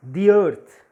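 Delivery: "The" rhyming with "see", then earth; "the" as thee. Shown as a demonstration. Teacher models the article before a vowel sound, "The" as "thee". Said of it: "Why I am saying the earth".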